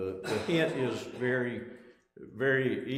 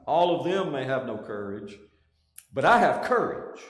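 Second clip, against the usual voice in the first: bold and emphatic; 3 dB louder than usual. Retold or imitated. Peter boasting to Jesus of his courage, boldly. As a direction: set yourself apart from all the others. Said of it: "Peter's statement is so emphatic, it's so bold".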